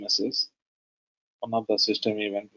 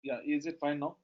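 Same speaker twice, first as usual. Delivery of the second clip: barely audible; 5 semitones higher, 9 dB quieter than usual. Real, not acted. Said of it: "Still very low".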